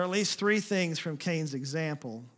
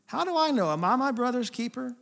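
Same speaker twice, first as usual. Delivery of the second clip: defiant Cain; 6 semitones higher, faster than usual. Pretend. Cain answering God defiantly.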